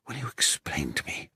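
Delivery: unvoiced hushed question; whisper. A narrator's reading. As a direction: whisper so no one hears. Hiding, speaking low.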